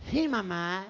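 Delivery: put-on low nasal boy, consonants blurred; reply through the nose, low and muffled; gangoso, nasal twang. Boy answers his mother's call, gangoso nasal voice. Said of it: "que era gangoso".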